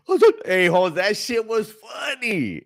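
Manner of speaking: high voice breaking into laughter; laughing. Real, not acted. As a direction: talk through the giggles. Laughing while retelling.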